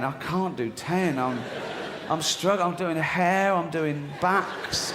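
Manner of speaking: mildly voiced desperate writer; struggling writer. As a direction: beg the boss for mercy. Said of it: "the bloke writing it".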